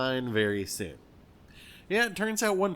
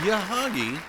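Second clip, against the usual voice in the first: announcer call; 8 semitones higher, 6 dB louder than usual. Acted. Announcing the guest ship.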